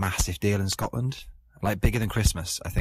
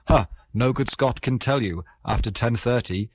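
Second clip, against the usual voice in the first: put-on Scottish accent; 4 semitones higher than usual. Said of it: "doing the accent".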